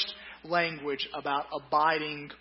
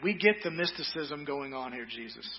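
mock grumbling crowd; 3 dB quieter than usual. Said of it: "and said".

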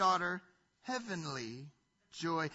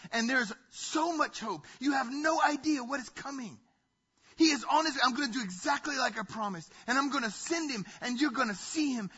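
loud, excited announcement, pitched up at the peaks; excited proud father; 2 semitones higher, 3 dB louder than usual. Acted. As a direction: burst with anticipation, punching the key words. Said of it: "feels this excitement about his children".

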